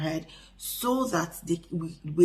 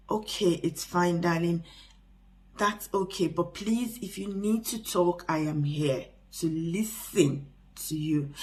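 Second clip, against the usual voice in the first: reassuring. Shown as a demonstration. Parent gently reassuring a withdrawn teenager. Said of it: "How do you reassure them?".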